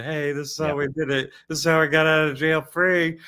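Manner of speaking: a rich British gent boasting from his estate; British Monopoly guy. Retold or imitated. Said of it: "if the Monopoly guy was British".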